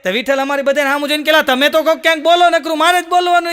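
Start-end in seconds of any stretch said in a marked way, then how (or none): 1.4-3.5 high, louder whiny grumble; lisping complaint. Acted. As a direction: grumble at the silent friends. Vitthal complains to friends.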